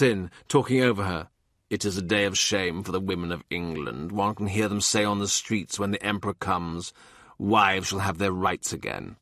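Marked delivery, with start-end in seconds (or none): 1.7-9.2 put-on low, soft, disapproving old man; stern old man. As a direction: grumble it with quiet scorn. More cuts in over daughter.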